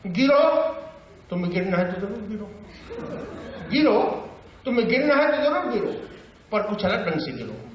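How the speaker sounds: conversational verse with high exclamations; talky poet's recital; Bhavani Prasad Mishra. Acted. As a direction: recite as if chatting, leaping up on the commands. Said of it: "बातचीत की शैली से देखकर क्या कहते हैं".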